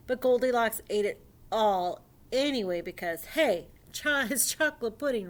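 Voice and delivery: animated, emphatic read-aloud; lively storyteller lifting key words; storybook reading. Acted. Reading a dinosaur fairy tale to young friends, animated storybook reading.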